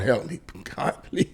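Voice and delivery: breathy laughing plea under the breath; laughing whisper. Real, not acted. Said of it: "exasperated laughing plea".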